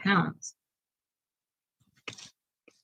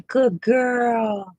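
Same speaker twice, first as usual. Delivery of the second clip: talking to a dog; 4 semitones higher than usual. Real, not acted. Praising the dog, higher.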